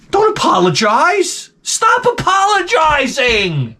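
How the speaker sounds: high-pitched ranting yell, last word stretched out; exasperated shout. Acted. Host scolding artists who apologized, exasperated shouting. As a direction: holler it at them, dragging out the order. Mock rant at apologizing pop stars.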